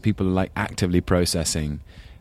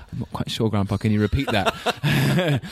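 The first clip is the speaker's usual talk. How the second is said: mock confused grandson; 6 semitones higher than usual. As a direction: play the lost grandson, laughing through it. Grandson baffled by grandpa's accent.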